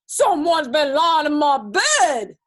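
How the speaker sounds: great big slow, loud roar; gruesome bear growl. A narrator's reading. Big bear finding his bed stomped, gruesome growl. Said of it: "growled the big bear in his great big gruesome voice".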